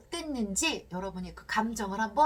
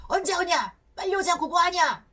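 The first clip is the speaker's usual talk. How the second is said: imitating angry father; 7 semitones higher, 4 dB louder than usual. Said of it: "막 이렇게 화내시면서".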